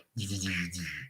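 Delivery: soft stuttering mouth noise; quick, quiet sputter imitating a glitch; imitated stutter noise. Imitates how the hand reacts.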